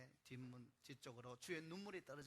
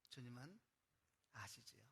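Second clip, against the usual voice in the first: ordinary talk, nothing marked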